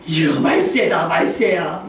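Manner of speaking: slow, drawn-out tutting at the times; disapproving lament. Retold or imitated. Church elders grumbling at youngsters, drawn-out disapproval. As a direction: lament it slowly in mock dismay. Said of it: "막 이러면서".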